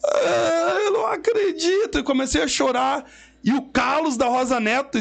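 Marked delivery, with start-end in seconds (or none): 0.0-2.0 high-pitched tearful wail, acted out; mock crying. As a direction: imitate someone wailing in tearful disbelief. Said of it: "chorando, e eu fiquei assim". (imitando choro, voz aguda e chorosa)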